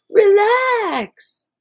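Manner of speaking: sharp high snapped "Relax."; curt relax. Retold or imitated. Host mocking how people say it, curt and loud. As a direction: bark "Relax." like a dismissive order. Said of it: "that tone".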